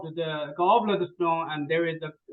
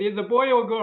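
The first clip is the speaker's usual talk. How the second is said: asked through a real laugh, a bit louder; laughing question; 4 semitones higher, 4 dB louder than usual. Real, not acted. Delighted laugh as she asks the caller about his dog. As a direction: giggle while asking about the dog.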